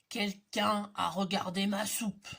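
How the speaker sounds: big bear noticing his soup. Acted. Big bear speaks again.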